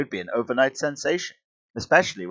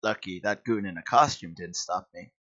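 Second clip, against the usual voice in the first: usual speaking voice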